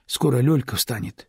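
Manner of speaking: plain reading voice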